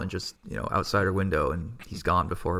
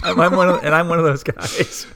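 high, loud, through laughter; laughing admission; 8 semitones higher, 7 dB louder than usual. Real, not acted. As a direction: own up while cracking up laughing. Laughs while owning up.

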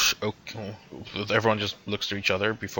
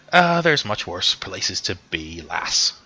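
put-on chuckling old man; slower than usual. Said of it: "just laughs and just goes".

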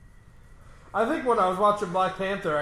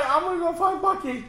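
hammy hero voice; 10 semitones higher than usual. Pretend. Hammy hero voice playing along.

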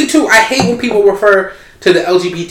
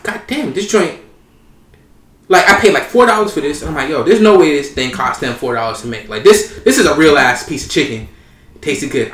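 smiling voice; 7 semitones lower, 4 dB quieter than usual. Retold or imitated. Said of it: "You hear that smile in his voice?".

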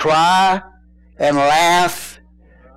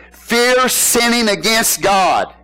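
drawn-out pulpit cry; preaching shout; 4 semitones higher, much slower than usual. Real, not acted. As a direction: hammer it home slowly. Preacher drives home the command.

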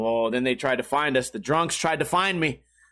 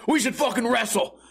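put-on high, insistent drunk-guy voice; drunk buddy; 6 semitones higher than usual. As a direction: lightly imitate a worked-up drunk pushing his idea. Acts out drunk friend demanding wrestling.

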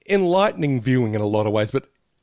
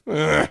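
imitated grunt; 5 semitones higher than usual. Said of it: "one brother sitting there going".

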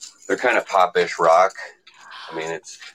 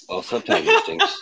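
laughing. Real, not acted. Laughing at own joke.

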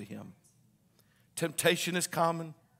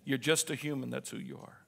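quiet to neighbor; 4 semitones lower, 7 dB quieter than usual. Shown as a demonstration. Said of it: "Turn to your neighbor and say".

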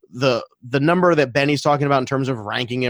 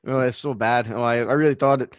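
lightly Irish-tinged Canadian apology; Canadian accent. Acted. Host joins in apologizing over Duke, mild Canadian accent. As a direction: fumble a sorry Canadian accent toward Irish. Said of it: "bit of Irish in your Canadian".

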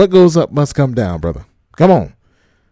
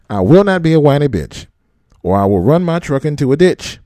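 mock oath, recited. Shown as a demonstration. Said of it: "Say it with me".

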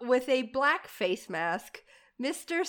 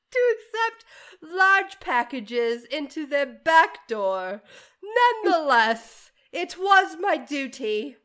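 put-on British accent; 2 semitones higher, 4 dB louder than usual. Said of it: "How's my accent?".

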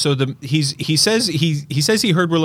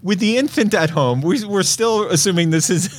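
laughing; 3 semitones higher than usual. Real, not acted. Reading listener email, laughing.

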